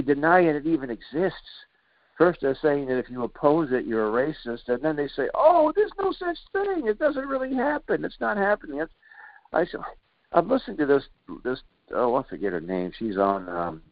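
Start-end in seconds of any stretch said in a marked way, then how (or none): 5.3-8.8 high, sing-song mocking impression of opponents. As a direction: sneer it in a high, falsetto whine. Mocking opponents who deny it.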